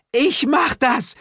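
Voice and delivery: high, loud, slow cry; Glenda shouting. Acted. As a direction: yell it bravely. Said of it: "schrie Glenda".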